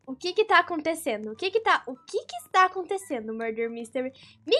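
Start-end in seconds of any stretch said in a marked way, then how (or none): none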